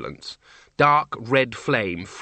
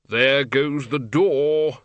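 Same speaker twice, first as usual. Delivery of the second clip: lecturer's dread; 2 semitones higher, 3 dB louder, much slower than usual. Acted. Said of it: "said the lecturer in recent runes".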